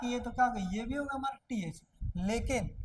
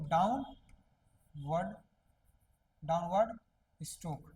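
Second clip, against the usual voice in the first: slow drawn-out term; 5 semitones lower, much slower than usual. Shown as a demonstration. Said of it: "होगा हमारा क्या".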